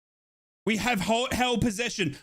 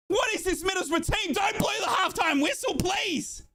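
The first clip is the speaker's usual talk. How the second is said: excited pleading; 6 semitones higher than usual. Real, not acted. Fan urging team on.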